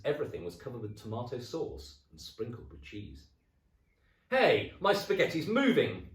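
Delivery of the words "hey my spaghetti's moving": loud, high alarmed outburst; loud startled old man; startled cry. Acted. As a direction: yelp at the plate. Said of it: "cried Mister Twit".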